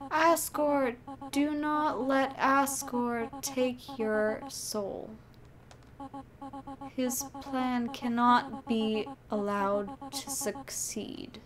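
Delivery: very slow, deliberate warning; dying guardian. Acted. Dying guardian warns about Asgore, slow and grave. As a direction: draw each word out gravely. Reads game character's warning.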